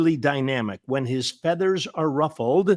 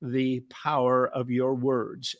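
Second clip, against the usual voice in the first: tearful quote; 3 semitones lower, 5 dB quieter, slower than usual. Retold or imitated. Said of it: "this woman says".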